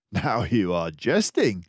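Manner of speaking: a friendly doctor mouse musing aloud; Dawson the narrator mouse. Acted. Dawson doubts Basil.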